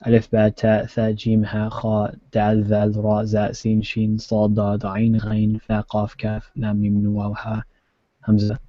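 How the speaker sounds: steady rhythmic recitation of letter names; reciting alphabet. Shown as a demonstration. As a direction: list the letters one by one, evenly. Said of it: "if I say the Hebrew, Arabic alphabet".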